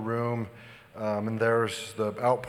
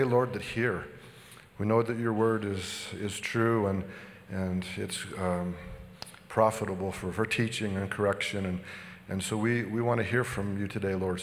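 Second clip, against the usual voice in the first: prayer; 2 semitones lower than usual. Acted. Pastor leads a prayer.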